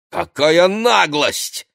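high, loud, drawn-out outrage; indignant. A narrator's reading. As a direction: burst out, stretching the words. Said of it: "возмутилась Ксения".

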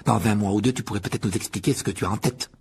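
mildly grumpy sarcasm; bad-tempered. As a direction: needle her irritably. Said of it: "dit Ron avec mauvaise humeur". (avec mauvaise humeur)

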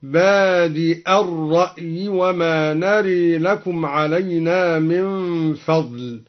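بادئ with a hamza at the end; بادئ بالهمزة. Shown as a demonstration. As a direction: say بادئ as badi', ending on a clear glottal stop, slowly. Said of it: "بالهمزة هكذا".

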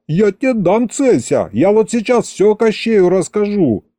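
high-pitched scolding outburst; indignant threat. A narrator's reading. Threatening the defenders after squeal. (возмущённая угроза высоким голосом)

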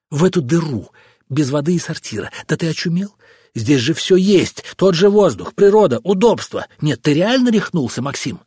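scornful scolding. Acted. Wife scolding husband over his plan, scornfully. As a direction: scoff at his crazy idea.

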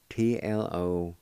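T L O spelled out slowly, one letter at a time. Shown as a demonstration. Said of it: "It's spelled like this".

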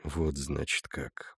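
soft low mutter trailing to a whisper. A narrator's reading. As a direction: mumble it to yourself. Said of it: "пробормотал Андрюс".

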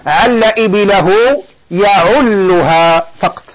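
slowly spelled-out verb and its form; slow demonstration. Shown as a demonstration. Teacher showing students how to say the verb, slowly. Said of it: "إذن فنقول هكذا".

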